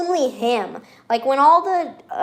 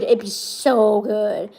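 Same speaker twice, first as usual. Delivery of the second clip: dragged-out dreamy voice; slow put-on voice; 2 semitones lower, much slower than usual. Vlogger repeats her wish in a slow goofy voice. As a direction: drawl it in a silly voice.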